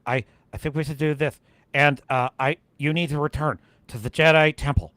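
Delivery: words pushed through clenched teeth; imitating a strained actress through her teeth; through gritted teeth. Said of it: "She talks through her teeth".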